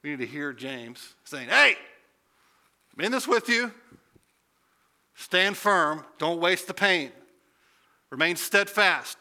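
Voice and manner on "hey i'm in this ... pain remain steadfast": rallying encouragement. Retold or imitated. James encouraging suffering believers.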